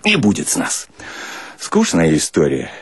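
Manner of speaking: plain reading voice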